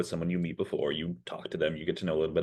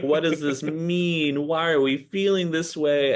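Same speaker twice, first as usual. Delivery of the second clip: high, bewildered questions, much higher; a rush of pitched-up confusion; genuinely confused; 10 semitones higher, 4 dB louder, slower than usual. Retold or imitated. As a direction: ask it as if truly lost and alarmed. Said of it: "I was so genuinely confused".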